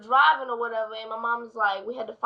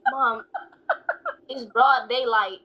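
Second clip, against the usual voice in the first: laughing protest; much slower than usual. Retold or imitated. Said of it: "And I'm like".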